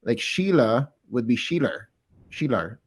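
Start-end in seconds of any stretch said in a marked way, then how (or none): 1.3-1.8 SHEILA ending in an added R; Boston intrusive R. Shown as a demonstration. Host demonstrating Boston accent, R added to SHEILA. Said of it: "R can show up randomly". 2.3-2.8 SHEILA with a tacked-on Boston R; attempted Boston accent. Shown as a demonstration. Non-native host attempting Boston accent on SHEILA. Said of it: "I can't do it".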